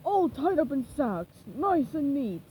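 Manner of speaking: slow raspy pirate. Acted. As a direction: rasp it out slow and smug.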